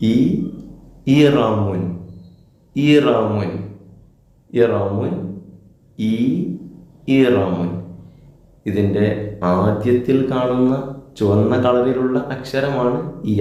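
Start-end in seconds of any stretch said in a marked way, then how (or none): 1.2-7.7 ഈറാമുൻ said slowly as ee-raa-mun, long ee first; model pronunciation. Shown as a demonstration. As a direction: drill ഈറാമുൻ clearly for pupils, long ഈ at the start. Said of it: "ഈ കൊണ്ട് രണ്ട് വാക്കുകൾ പറഞ്ഞാണ്".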